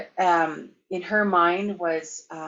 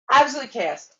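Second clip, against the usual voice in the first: absolute chaos burst out higher and louder; exclaimed; 6 semitones higher, 6 dB louder than usual. Retold or imitated. Telling the audience about the rat chaos, loud and high. Repeats the phrase for emphasis.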